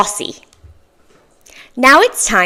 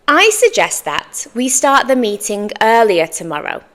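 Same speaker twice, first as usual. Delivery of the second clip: careful model. Shown as a demonstration. Teacher's careful model before natural take.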